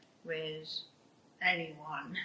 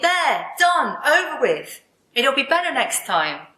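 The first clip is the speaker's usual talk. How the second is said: higher-pitched, emphatic self-convincing; brisk self-reassurance; 4 semitones higher than usual. Acted. Young woman telling herself it is finished, brisk self-reassurance. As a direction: brush it aside, pitched up. Brushing a bad experience aside.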